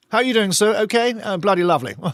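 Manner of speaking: military officer's way of talking. Retelling how soldiers spoke to the officers: imitating talking like the officers. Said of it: "We used to talk like that to the officers".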